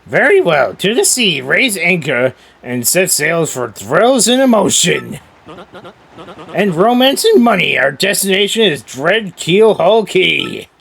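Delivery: rally the crew to sail; rousing cheer. Acted. Rousing set-sail speech.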